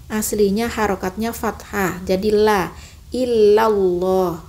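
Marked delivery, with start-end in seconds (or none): 2.3-4.4 ilallah slow with the ha dropped; wrong la ilallah. Shown as a demonstration. Teacher shows the wrong la ilallah. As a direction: drop the ha in la ilallah. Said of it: "hindari lagi".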